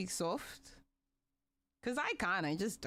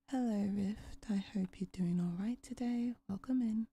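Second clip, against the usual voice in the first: ASMR whisper. Shown as a demonstration. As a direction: whisper it close to the mic. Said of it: "when I start whispering".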